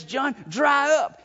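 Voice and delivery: slow, shouted command to stop crying; hammed-up angel telling John off; mock parental shout. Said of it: "And so he says".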